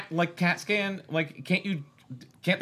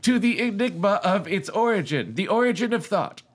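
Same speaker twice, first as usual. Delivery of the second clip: put-on storytelling voice, higher than usual chat; committed narrator voice; 4 semitones higher than usual. Host reading a novel aloud in a committed narrator voice. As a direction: read it out with a narrator's measured formality. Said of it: "Why did I commit to this voice?".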